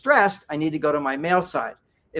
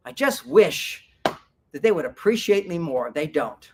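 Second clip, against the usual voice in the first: with emotions. Shown as a demonstration. To show women how to share feelings, open and emotional. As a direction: tell it with feeling, frustrated and let down. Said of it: "come back to the story with emotions".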